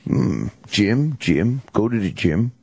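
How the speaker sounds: low, halting thinking-aloud voice; musing to himself. Retold or imitated. Co-host playing the radio host hunting for an excuse, mock musing. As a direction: mull it over, testing each word.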